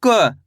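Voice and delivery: क said short, without the aa; क as a brief k with a tiny uh; half sound. Shown as a demonstration. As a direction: demonstrate क as a half letter, not का. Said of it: "का का उच्चारण कैसे कर रहे हैं".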